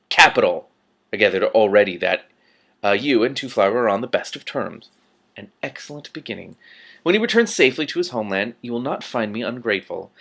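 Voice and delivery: silky, menacing ruler with veiled threats; lightly voiced patrician. The Patrician threatening Rincewind, silky menace. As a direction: purr the threat politely.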